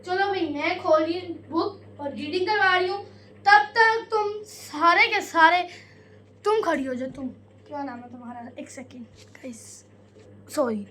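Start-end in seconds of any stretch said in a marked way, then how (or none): 0.1-7.1 strict teacher. Pretend. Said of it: "उनकी आज मैं एक्टिंग करूँगी".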